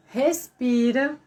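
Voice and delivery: slow, stretched-out word; drawn-out instruction. Shown as a demonstration. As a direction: stretch it like a calming breath. Demonstrating the pause and breath.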